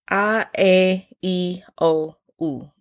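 "A, E, I, O, U" each as a pure Spanish vowel, spaced out. Shown as a demonstration. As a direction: say "A, E, I, O, U" the Spanish way, one by one. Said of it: "Those are the vowels".

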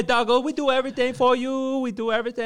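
high, loud put-on Asian accent; his Asian accent. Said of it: "talking to himself in his Asian accent".

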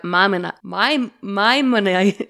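can't get Maimoni- out; stumbling pronunciation. Real, not acted. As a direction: trip over Maimoni-, breaking off and retrying. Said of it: "I can't say that name".

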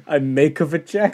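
put-on echoing the Portuguese accent as a question; lightly imitated Portuguese accent. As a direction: copy the mock Portuguese broken English, rising. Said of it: "That's how he talks".

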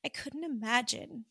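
holding back tears; emotional. Real, not acted. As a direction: voice welling with emotion. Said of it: "I'm getting emotional thinking about it".

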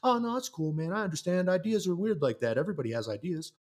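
mock pushover. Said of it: "expect me to be like".

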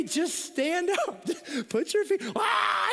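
cracking up, words squeezed high through laughter; laughing through it. Real, not acted. Pastor breaks up laughing retelling telling his son to stand up. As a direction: barely get it out for laughing.

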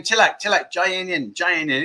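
wife cooling down a husband; calming. Retold or imitated. Wife calming her husband keen for beer, soft. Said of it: "and she's saying".

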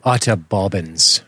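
slow mock British "utter bobbins"; imitating a British friend; British accent. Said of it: "That's Elton".

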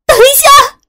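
high, loud desperate scream; panicked scream. A narrator's reading. Sister screaming to stop the gunman, high panicked scream. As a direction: shriek to stop him. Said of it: "我失声地叫了起来".

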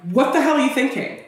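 self-scolding. Retold or imitated. Scolding herself in memory.

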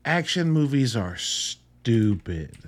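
slow, deliberate, dead earnest; measured sincere statement. Real, not acted. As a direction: lay it out slowly so they know you mean it. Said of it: "hear this with the most sincerity".

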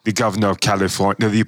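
a light Schwarzenegger-style announcement; mock-grand Arnold introducing himself; Arnold impression. Co-host shows the impression he almost did, as Arnold. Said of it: "I almost did Arnold again".

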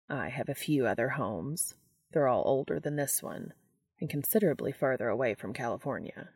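quietly level, unhurried; lightly voiced calm angel. Castiel answering Dean on the forest floor, lightly low and soft.

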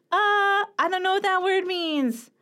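high, puzzled reader voice; confused reader. Pretend. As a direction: sound baffled by a strange word. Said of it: "they're gonna be like".

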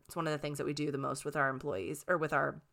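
hoarse, losing her voice; raspy voice, slightly worn out. Real, not acted. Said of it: "Sorry, I'm losing my voice".

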